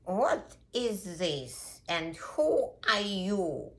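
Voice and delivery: slow, drawn-out elephant questioning; lightly voiced ponderous elephant; affronted elephant. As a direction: demand it slowly, as a big offended animal. Elephant confronts the puppy.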